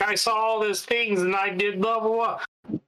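high-pitched dismissive parody; mocking imitation. Skeptic imitating people who see signs everywhere, mocking. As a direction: parody a gushing believer, trailing into blahs.

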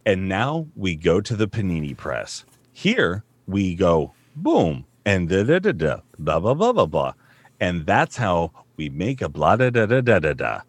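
mock training video voice. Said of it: "So it's like".

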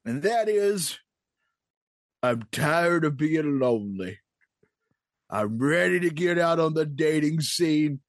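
put-on old prospector. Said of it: "old Prospector wanted to bring something up".

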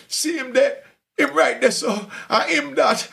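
high, eager Jamaican voice naming names; Jamaican prisoner. Retold or imitated. Inmate pointing out the narrator to guards, in a high Jamaican accent.

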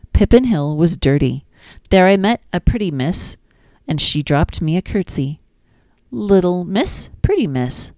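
sing-song, lilting nursery rhyme reading; gentle storytime reading; reading rhymes to children. Acted. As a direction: read it like bedtime rhymes for a toddler.

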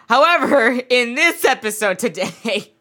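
giggling through the words; can't hold back a laugh. Real, not acted. Giggles while introducing topic.

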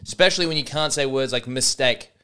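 put-on rough go at a South African accent; attempted South African accent. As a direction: narrate yourself in a wobbly South African accent. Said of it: "working on this South African accent".

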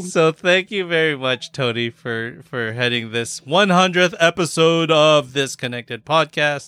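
bright radio host delivery. Acted. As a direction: announce it like a DJ on air. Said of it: "That was my radio voice".

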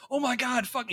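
high-pitched mock cry at the screen; mock audience yell. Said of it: "you're yelling at the screen".

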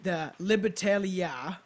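storyteller read with punched key words; measured, emphatic read-aloud; scripted narration. Acted. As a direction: present it like a podcast history script. Reads a scripted history.

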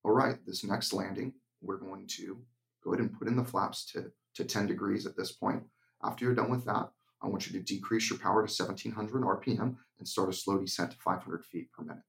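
even, unhurried instructor voice with no emotion; monotone. Shown as a demonstration. Flight instructor calmly guiding a student's landing, flat monotone. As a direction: talk the student through it like reading a checklist. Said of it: "change the tone of my voice to a total monotone voice".

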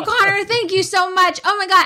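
embarrassed gushing while rolling the window up; flustered high thanks. Retold or imitated. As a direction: thank him in a panic to cover. Mortified, rushing to escape.

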